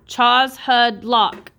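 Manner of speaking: CHAZ, HUD, LOCK in three separate beats; syllable by syllable. Shown as a demonstration. Teacher sounding out three syllables for scholars, syllable by syllable. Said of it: "That's three syllables".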